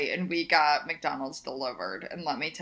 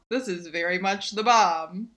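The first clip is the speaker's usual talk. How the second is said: mock hip slang; 4 dB louder than usual. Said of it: "Like, hello, fellow kids".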